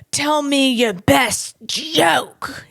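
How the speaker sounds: slow demanding lawyer imitation; imitating feisty lawyer. The comic mimics the lawyer demanding a joke, slow mock demand. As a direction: slowly demand the joke, mocking him. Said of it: "This is what he did".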